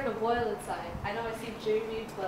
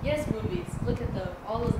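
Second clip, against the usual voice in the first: sudden heat; 4 dB louder than usual. Acted. Tom erupting at his friend about the movies. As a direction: fire up on the word yes.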